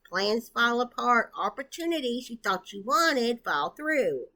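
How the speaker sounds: talking while short of breath. Real, not acted. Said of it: "I am so short of breath anymore".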